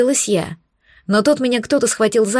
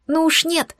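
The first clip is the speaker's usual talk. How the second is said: indignant; 7 semitones higher than usual. A narrator's reading. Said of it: "возмутилась я".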